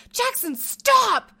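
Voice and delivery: high, loud, drawn-out scream of the name; screaming at a child. Retold or imitated. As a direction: yell it slowly across the store. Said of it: "I'm, like, screaming in the store".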